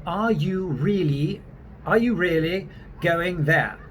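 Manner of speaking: British accent, drawn-out demo phrasing; deliberate British English. Shown as a demonstration. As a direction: show the British R slowly. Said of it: "that English pronounce R's is the same way".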